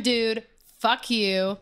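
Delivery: drawn-out, deliberate fuck you; slow pointed insult. Real, not acted. To the bouncer listening, slow and pointed. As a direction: spell it out slowly to him. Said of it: "So if you're hearing".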